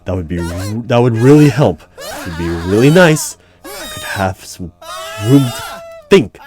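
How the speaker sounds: strained and loud, begging for the screams to stop; rattled pleading. Acted. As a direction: plead as if the screams fill your head.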